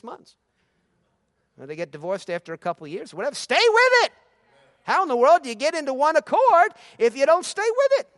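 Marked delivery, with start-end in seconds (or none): 3.4-8.1 high, loud preached command; preaching shout. Acted. Pastor exhorting congregation to stay, preaching shout. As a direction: shout it like a pulpit climax.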